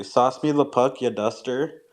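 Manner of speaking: put-on Canadian hockey player accent, lightly done. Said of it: "who could do the best, um, hockey accent".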